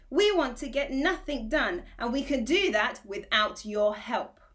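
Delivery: curt cross retort; snapped angrily. Acted. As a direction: bite back at the boy, annoyed. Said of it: "snapped another angrily".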